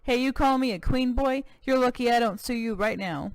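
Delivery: a touch of indignant cowboy; mock-offended Texan; offended cowboy governor.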